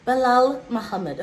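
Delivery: "Bilal Muhammad" through a giggle; "Bilal Muhammad" while laughing at herself. Shown as a demonstration. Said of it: "let's try that one more time".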